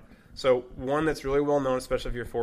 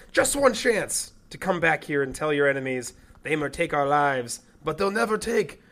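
loud, slow rousing battle speech, pitch soaring on one chance and freedom; rally the troops before battle, hammed up; Braveheart voice; 4 semitones higher, 6 dB louder than usual. Asked by his co-host, he belts out the William Wallace freedom speech. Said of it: "do the voice".

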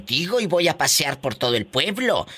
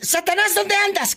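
higher sing-song call to a pet; calling the cat. Real, not acted. Host calling out to her cat Satanás, high sing-song.

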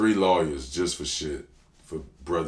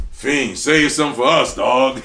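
hyped, much higher and louder shout across the studio; excited call-out; 9 semitones higher, 13 dB louder than usual. Retold or imitated. Styles P shouting to the rapper in the booth, pumped up call-out. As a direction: call him out loud like you're hyping your boy. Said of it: "be like".

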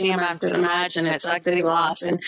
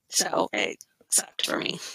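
soft, slow, breathy ending; quiet slow sigh; 6 dB quieter, slower than usual. Real, not acted. She tells her co-host her favourite lost, fading softly. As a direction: let it fade in disappointment. Sad end of her story.

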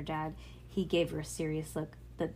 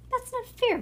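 high, louder whiny protest; crying out in protest; 5 dB louder than usual. A narrator's reading. Bean protesting to her dad, crying out. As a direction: cry out at the unfairness. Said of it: "cried Bean".

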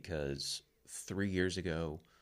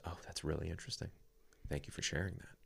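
calm acceptance; 11 dB quieter, faster than usual. Retold or imitated. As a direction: imitate a partner taking it gently. Partner calmly accepts a confession.

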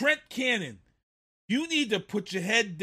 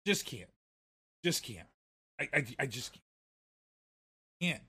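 much softer, lower, trailing off; despairing; 7 semitones lower, 10 dB quieter, faster than usual. Real, not acted. Fan too frustrated to watch, muttering. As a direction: give up on it under your breath. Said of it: "why I'm pissed right now".

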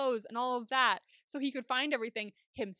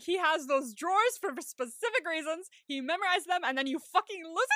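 mock scolding; 4 semitones higher, 4 dB louder than usual. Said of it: "I was screaming at the T V".

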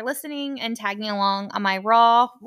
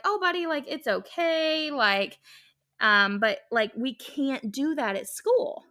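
gentle mom; 2 semitones higher, slower than usual. Retold or imitated. Mother reassuring her son after recess, slow gentle voice.

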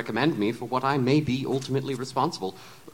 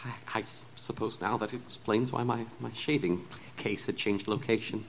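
trembling voice; 5 dB quieter than usual. Acted. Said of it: "with a trembling voice".

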